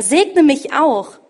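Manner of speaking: loud, slow, bitter plea; pleading cry. A narrator's reading. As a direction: beg the father slowly and loudly for a blessing. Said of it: "rief er".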